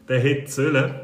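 "sollen" deutlich betont und etwas lauter; Betonung auf sollen. Retold or imitated. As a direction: das Wort "sollen" hervorheben. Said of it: "mit Betonung auf sollen". (Betonung auf "sollen")

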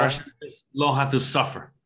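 stoic mock Russian; deadpan Russian impression; Russian accent. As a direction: put on a stock Russian accent. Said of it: "do a Russian impression".

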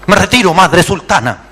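sultan's son. Acted. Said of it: "el hijo del sultán".

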